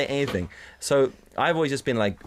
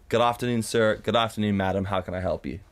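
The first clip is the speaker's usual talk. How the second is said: overly polite. Retold or imitated. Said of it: "from extremely to polite".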